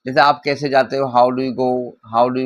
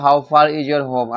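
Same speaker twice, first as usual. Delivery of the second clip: very slow, word by word; teacher's slowed-down model sentence; slow example sentence; much slower than usual. Shown as a demonstration. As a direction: spell it out slowly for learners. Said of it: "जैसे मैंने बोला".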